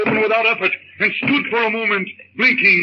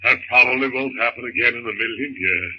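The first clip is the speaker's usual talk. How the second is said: low, soft reassuring husband; calm his frightened wife in a deep voice; husband's voice; 9 semitones lower, 3 dB quieter than usual. Acted. John voiced by narrator.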